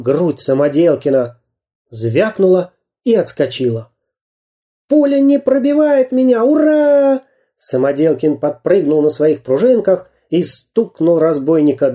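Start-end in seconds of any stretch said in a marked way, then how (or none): 4.9-7.2 much higher, joyful shout; triumphant cheer. A narrator's reading. Samodelkin cheers as the bullet bounces off, jubilant. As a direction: crow with delight.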